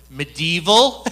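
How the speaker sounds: retold surprise with a rising lilt; incredulous question. Retold startled question about hell.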